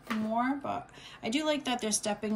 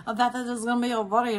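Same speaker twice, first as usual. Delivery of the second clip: laughing at herself; chuckling through the words; 5 semitones higher, 6 dB louder, faster than usual. Real, not acted. Laughs at long video.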